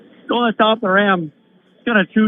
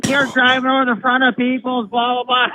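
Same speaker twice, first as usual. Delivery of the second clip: mild mock yell, pitched higher; higher-pitched mocking rant, no real volume; retold screaming; 4 semitones higher than usual. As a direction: imitate a screamer without really shouting. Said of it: "guy comes screaming".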